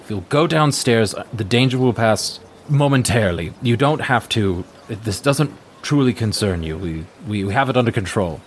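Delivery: polite, mildly anxious guard; lightly voiced earnest guard; pleading guard. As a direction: gently urge her to turn back. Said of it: "the guard, he goes".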